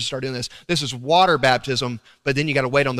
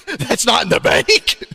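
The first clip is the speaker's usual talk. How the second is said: a stern wife's retort, slowed; mock-scolding wife, drawn out; wife's look; 6 semitones higher, 5 dB louder, slower than usual. Preacher voicing his wife catching him with the cash.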